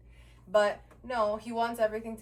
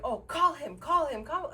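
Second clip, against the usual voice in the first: higher, louder mimicry; imitating insistent demand; 6 semitones higher, 5 dB louder than usual. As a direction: mimic him urging, pitched up and louder. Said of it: "he's still screaming at me".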